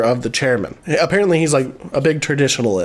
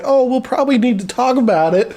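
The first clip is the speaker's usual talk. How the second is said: higher, fussy hesitant voice; mock fiancée; 5 semitones higher than usual. Fiancée stalling about the new roommate, higher fussy mock voice. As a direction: stall him like a worried fiancée. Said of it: "she's like".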